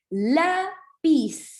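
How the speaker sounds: Lápiz broken as lá, pause, piz; split into syllables. Shown as a demonstration. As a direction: stretch and separate both syllables of Lápiz. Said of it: "pis, y la es la".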